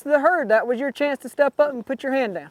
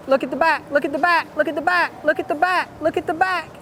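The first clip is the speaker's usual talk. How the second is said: urgent calling; 4 semitones higher than usual. Real, not acted. Coach calling rider repeatedly.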